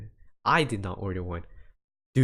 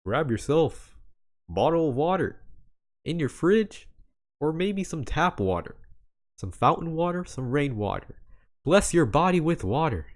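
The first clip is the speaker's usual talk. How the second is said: higher, hammed-up TV ad announcer; commercial voice; 6 semitones higher than usual. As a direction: sell water like a cheesy TV spot. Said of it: "Let me put on my commercial voice".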